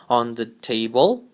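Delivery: "On the table." lifted up on "table"; rising end. Shown as a demonstration. Teacher demonstrating the final rise on "On the table.". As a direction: lift the tune up on "table". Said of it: "we rise the intonation at the end".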